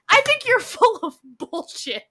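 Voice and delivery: mocking laugh. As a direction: laugh it off as he calls her bluff.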